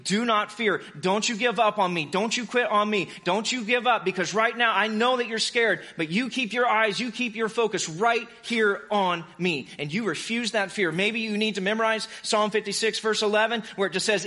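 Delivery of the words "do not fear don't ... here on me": earnest, emphatic command, slightly raised pitch; imagined Jesus urging someone not to give up; intense Jesus, lightly voiced. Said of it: "see an intense glare in his eye".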